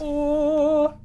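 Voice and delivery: high thrilled oh; excited gasp. Real, not acted. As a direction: burst out with delight. Finds the artifact.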